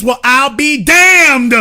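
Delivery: high, slow exclamation; indignant disbelief. Real, not acted. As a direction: draw it out in disbelief.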